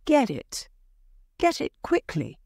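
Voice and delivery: urgent order, starting high; crying out. A narrator's reading. Wife ordering husband to fetch paw, crying out. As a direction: press him to hurry. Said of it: "Missus White cried again".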